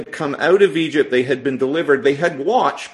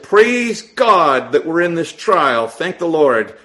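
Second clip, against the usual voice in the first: mock pious praise; 3 semitones higher, 5 dB louder than usual. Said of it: "that's not what it says in my Bible".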